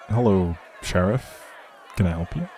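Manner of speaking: ordinary delivery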